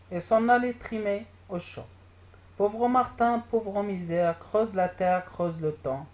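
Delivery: measured, line-by-line poem recitation; poem reading. Acted. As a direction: read the verses aloud to a class, each line falling gently at the end. Reads the poem aloud to pupils. (lecture de poème à voix haute)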